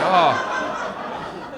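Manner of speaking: long breathy worn-out "oh"; mock-weary exhale; exhausted sigh. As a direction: let the air out as if exhausted by the sight. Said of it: "made me exhausted".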